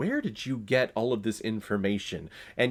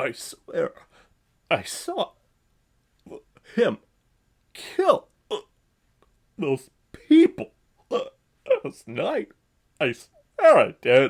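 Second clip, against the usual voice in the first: overacted gagging delivery, high and slow. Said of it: "That was his delivery through the entire film".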